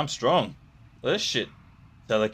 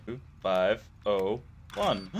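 slow, each digit placed carefully; key it in digit by digit, slowly; careful slow readout of two five oh one; slow deliberate code entry; 5 semitones lower, 3 dB quieter, slower than usual. Shown as a demonstration. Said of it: "Sounds good to me".

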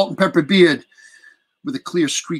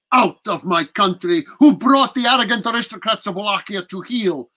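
lightly voiced prince, commanding; a hint of an imperious old count; proud Dracula; 2 semitones higher than usual. Dracula declaring himself to the English prisoner, proud.

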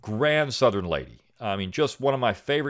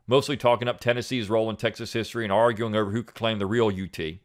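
steady, measured reading of a written piece; calm, deliberate essay narration; essay read aloud. Acted. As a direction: read it like a prepared essay for listeners. Reads essay aloud on podcast.

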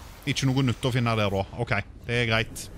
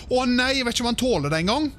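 high, louder worried cry as it sinks; real alarm; 11 semitones higher, 4 dB louder than usual. Real, not acted. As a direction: panic a little as the suit drops away. Suit sinking into the deep. (engstelig utrop)

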